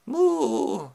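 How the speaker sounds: high-pitched cartoon moo. Oxen at the barbecue, high imitation moo. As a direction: moo like a doomed ox.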